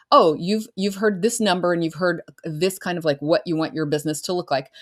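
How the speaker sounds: bright, eager mirroring of a client's dream; enthusiastic belief. Retold or imitated. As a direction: tell them warmly you believe them. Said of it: "what you're really doing is saying".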